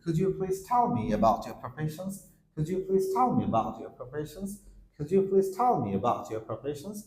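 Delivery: slow, carefully pronounced question; careful pronunciation. Shown as a demonstration. Teacher modelling polite question for students, slow and careful. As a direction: say every word clearly and slowly. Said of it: "একটু প্রোনাউন্সটা সুন্দর করবো".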